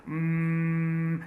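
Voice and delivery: long, level "mmm" of hesitation; acted drawn-out puzzled hum; confused hum. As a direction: hum as if stuck for an answer. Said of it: "He is confused".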